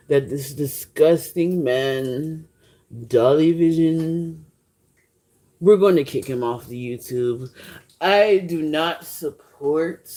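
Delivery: a hint of a presidential impression, drawn out; Trump. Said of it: "That was my Trump impression".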